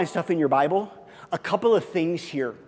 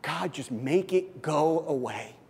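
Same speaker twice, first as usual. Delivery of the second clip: quiet retold prayer; 5 dB quieter, slower than usual. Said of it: "I prayed the same prayer".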